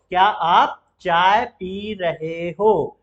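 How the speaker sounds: slow, drawn out, clear; slow repeated question. Shown as a demonstration. Teacher repeats the Hindi question slowly for students. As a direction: ask it slowly to the learner. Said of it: "आप पूछिए इससे कि".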